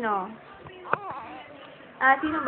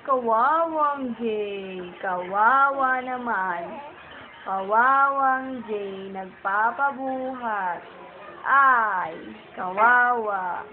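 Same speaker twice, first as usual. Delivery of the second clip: cooing pity; 3 semitones lower, slower than usual. Real, not acted. Parent pitying hot, fussy baby Jay, slow tender coo.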